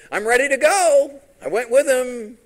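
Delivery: high, very loud announcement; eager call. Retold or imitated. Prophet going out to the king's men, eagerly calling. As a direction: call it out eagerly, well above talking pitch.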